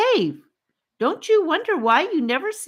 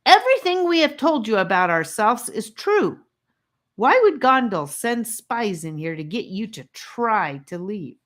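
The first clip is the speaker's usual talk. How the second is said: put-on high, loud angry boy; furious, exasperated tirade; demanding angrily; 6 semitones higher, 3 dB louder than usual. A narrator's reading. Charlie demands angrily that the captives think. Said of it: "he demanded angrily".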